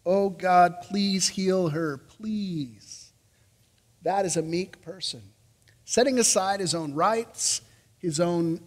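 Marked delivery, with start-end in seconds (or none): 0.1-3.1 slow, sincere prayer, each word set down gently; slow earnest plea. Acted. Moses interceding for his sister, slow earnest plea. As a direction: plead it earnestly, taking your time. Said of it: "Moses intercedes".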